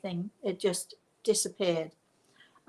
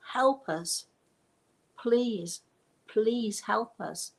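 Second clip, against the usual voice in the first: pleading cry; 3 semitones higher, slower than usual. Retold or imitated. Woman on the ship begs the speaker for help, mildly pleading. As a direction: retell her desperate begging with a touch of tears. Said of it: "pleading and crying".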